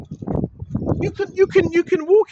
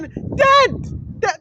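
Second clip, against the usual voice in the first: mocking shout; 7 semitones higher than usual. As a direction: yell it like the hecklers do. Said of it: "You got people saying".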